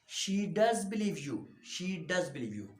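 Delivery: emphatic DOES in the rebuttal; stress on does. Shown as a demonstration. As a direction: lean on "does" to contradict firmly. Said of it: "emphatic manner of speaking".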